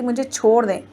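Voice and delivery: mild, understated tearful plea; a frightened girl begging, lightly voiced; tearful pleading. A narrator's reading. Girl begs the father-in-law to let her go, tearful pleading. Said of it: "रोती हुई मेरे ससुर की मिन्नतें कर रही थी".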